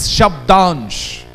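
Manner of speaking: "Shabdansh" said slowly and firmly, falling at the end; slow emphatic term. Shown as a demonstration. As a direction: lean on "Shabdansh" like a new term. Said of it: "These two elements are known as".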